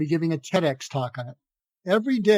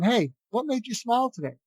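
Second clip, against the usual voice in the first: bright, higher caring question; like you care; 7 semitones higher than usual. Shown as a demonstration. Greeting a stranger, asking sincerely and with real care. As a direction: ask as if the answer truly matters. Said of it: "say it like you care about the answer".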